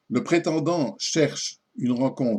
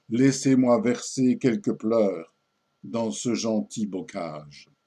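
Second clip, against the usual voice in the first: poem recitation. Acted. Suitor coaxing the lady in veiled verse, poem recitation.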